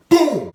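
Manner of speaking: high, loud hit sound; explosive punch sound effect; shouted impact boom. Retold or imitated. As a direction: burst out a knockout "boom". Imitating the knockout hit.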